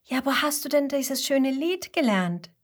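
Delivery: lifted, wondering Mama Koala voice; astonished mother. Acted. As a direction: ask your child in mild amazement. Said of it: "fragt seine Mama erstaunt".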